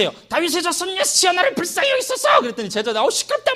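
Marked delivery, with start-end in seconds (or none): 0.3-2.4 high calling-out plea; raised, high shout for mercy; blind man's cry. Acted. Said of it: "더 크게 소리 질러". 3.0-3.5 irritated high grumble; fed-up disciples; annoyed shushing. Acted. Disciples hushing the blind man.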